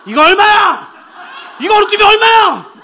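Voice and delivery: 느리게 끌며 크게 외치는 할아버지; 뷔페에서 값을 묻는 할아버지의 고함; loud shout. Retold or imitated. Grandpa shouting at buffet. (크게 외치며)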